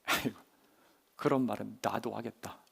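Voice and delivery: low, soft dismissive muttering; skeptical grumble. Acted. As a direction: grumble it under your breath, unimpressed. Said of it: "이렇게 생각했을지도 몰라요".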